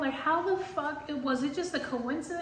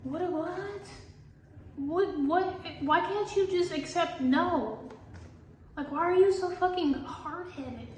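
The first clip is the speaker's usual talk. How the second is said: higher, slowed exasperation; mock pleading with a stubborn ex; exasperated quote; 4 semitones higher, slower than usual. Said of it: "I'm just like".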